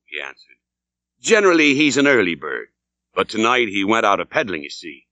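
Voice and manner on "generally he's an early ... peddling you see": a lightly voiced old landlord, sly and chummy.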